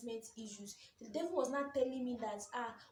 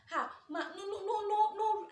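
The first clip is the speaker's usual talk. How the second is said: hasty no; 10 semitones higher, 8 dB louder than usual. Retold or imitated. Hasty retold denial.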